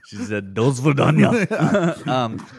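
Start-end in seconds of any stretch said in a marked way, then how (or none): 0.5-2.1 very slow, higher, laughing drawl; mock teacher phrase. Teacher saying a phrase, mock slow and laughing. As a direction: stretch each syllable like a clueless teacher. Mocking teacher's bad language.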